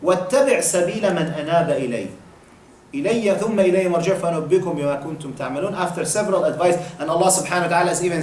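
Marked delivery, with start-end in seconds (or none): 0.0-5.7 rapid Arabic verse recited; brisk Quranic recitation; quick Quran recitation. Acted.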